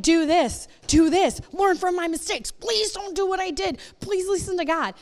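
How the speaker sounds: high, urgent pleading leader; earnest leader pleading. Retold or imitated. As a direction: beg them to learn from you. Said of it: "And they're like".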